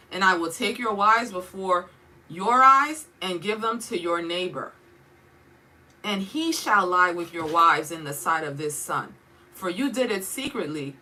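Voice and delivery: declaiming the prophet's rebuke, swelling loud on the sword; forceful scripture reading. Acted. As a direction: read it as a prophet pronouncing judgment. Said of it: "It made me wanna read it like this".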